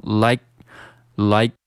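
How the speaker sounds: "like" with the final k held and not released; lost plosion on like. Shown as a demonstration. Teacher showing lost plosion, "like" with an unreleased k. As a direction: swallow the k burst at the end of "like". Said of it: "失去爆破的处理".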